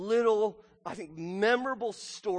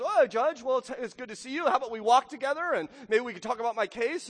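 put-on higher, fast, eager old lady; little old widow; 6 semitones higher than usual. Widow walking the judge home, higher eager pleading. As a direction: chase him down with a bright plea. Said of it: "she says".

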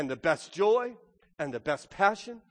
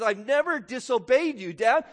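higher, louder aggrieved son; mock misery; 5 semitones higher, 4 dB louder than usual. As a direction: protest your obedience as a burden. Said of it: "his obedience is a misery to him".

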